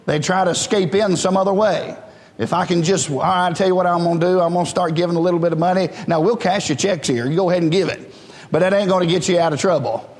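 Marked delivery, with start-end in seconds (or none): 3.1-8.1 mock bargainer. Mock bargaining sinner voiced.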